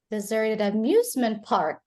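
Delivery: "amusement park" stressed, with a peak on "amusement"; teacher's model, weight on "amusement park"; stress on final words. Shown as a demonstration. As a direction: land firmly on "amusement park". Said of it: "the final word in a sentence is stressed".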